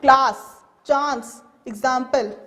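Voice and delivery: class, chance, example with a broad open A; British broad A in class, chance, example; British pronunciation. Shown as a demonstration. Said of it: "In British, the word is".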